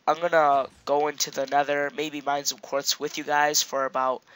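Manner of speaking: stuffy nose from a cold; talking through a stuffed-up nose; blocked nose. Real, not acted. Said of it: "oh, I'm sorry about my, my nose, I'm s-, I'm still kinda sick".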